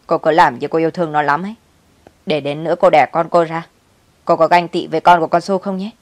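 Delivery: mock her feelings with scorn; sneering mother-in-law. Mother-in-law jeering at her son's wife, scornful.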